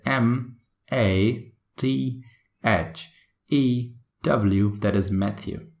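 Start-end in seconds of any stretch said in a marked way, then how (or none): 0.0-4.8 "M, A, T, H, E, W" dictated letter by letter; British spelling-out. Shown as a demonstration. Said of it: "next time when they say".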